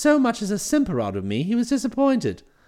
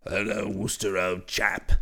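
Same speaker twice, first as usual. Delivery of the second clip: much lower, hearty brash chap; cheery voice; 12 semitones lower, 6 dB quieter, slower than usual. Acted. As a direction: hail him with cheery familiarity. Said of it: "a cheery voice hailed me".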